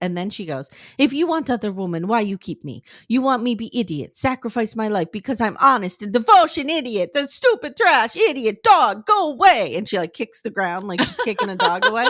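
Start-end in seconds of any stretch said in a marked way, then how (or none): 1.0-9.8 mock angry outburst, furious and fully unleashed. Retelling a scene script, a woman confronting her partner: imitating Natalie unleashing on him. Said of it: "she just unleashes".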